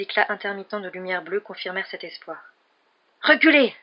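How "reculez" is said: sudden high shout. A narrator's reading. Panicked attacker to the police, shouting. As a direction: yell to force them back. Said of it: "cria Jason".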